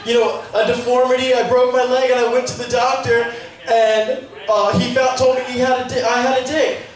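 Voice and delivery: a hint of a distraught woman confessing; upset woman. Woman telling the comic about her deformity, lightly mock upset. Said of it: "She was like".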